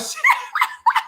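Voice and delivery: high, delighted giggle; high laugh. Real, not acted. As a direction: crack yourself up. Laughs at own joke.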